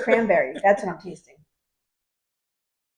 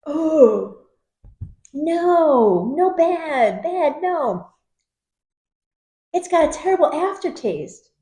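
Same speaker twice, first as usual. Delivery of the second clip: disgusted; 5 semitones higher, 3 dB louder, much slower than usual. Real, not acted. Disgusted by a bad beer.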